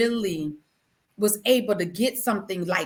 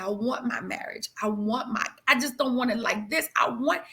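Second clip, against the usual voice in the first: broken down. Retold or imitated. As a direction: say it as she breaks down. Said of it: "I broke down".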